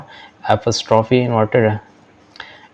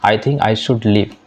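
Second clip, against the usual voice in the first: slow, careful classroom English; deliberate teacher read-aloud; slow model reading; much slower than usual. Shown as a demonstration. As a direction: spell each word out slowly for learners. Teacher reads model sentence.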